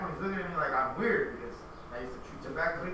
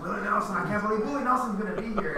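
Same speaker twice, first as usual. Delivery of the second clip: excited; 5 semitones higher, 4 dB louder, faster than usual. Retold or imitated. Retelling own excitement over star.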